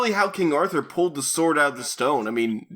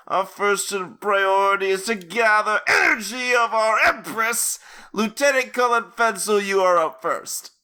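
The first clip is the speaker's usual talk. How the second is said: commanding villain; 4 semitones higher, slower than usual. Acted. Villain giving orders aloud.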